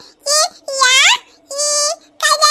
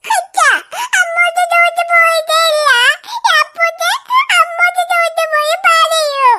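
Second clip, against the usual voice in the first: acted crying. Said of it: "നീ എന്തിനാ അതിന് കരയുന്നത്".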